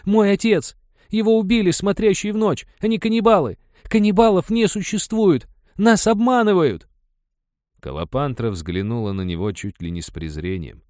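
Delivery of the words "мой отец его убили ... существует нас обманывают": high, loud desperate shouting; yelling. A narrator's reading. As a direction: shout the truth at her, slowing at the end. Son keeps yelling at mother.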